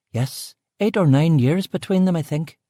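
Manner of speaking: brusque West Belfast cook. Acted. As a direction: Belfast woman, short with the visitor. Aileen answers.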